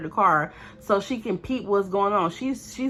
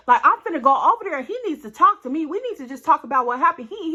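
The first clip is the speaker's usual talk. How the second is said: fast agitated rant; 5 semitones higher, 3 dB louder, faster than usual. Retold or imitated. Friend ranting about boyfriend.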